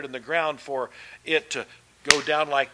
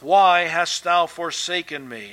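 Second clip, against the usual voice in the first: louder, drawn-out imitated plea; crying out; 5 dB louder than usual. Preacher voicing Jesus crying out to God in the darkness. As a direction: retell a cry to God, voice raised. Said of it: "And he cries out".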